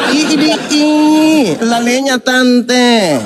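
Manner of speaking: slow, drawn-out mocking laugh through the words; mocking laughter. Real, not acted. Host laughing at the caller's voice, slow mocking laugh. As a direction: laugh at him while teasing.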